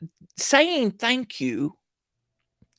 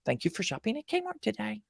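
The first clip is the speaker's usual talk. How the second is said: rote cashier line; 6 dB quieter than usual. Retold or imitated. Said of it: "where the cashier was supposed to say".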